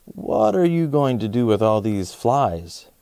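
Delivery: lightly voiced worried dad; alarmed dad. Dad sees flies at the table, mild alarm. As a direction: ask it like a startled father. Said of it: "cried Dad".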